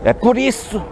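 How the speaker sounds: ordinary talk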